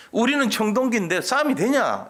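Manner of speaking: high-pitched imitated grumble; complaining. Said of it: "이렇게 불평했습니다".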